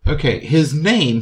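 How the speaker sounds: usual speaking voice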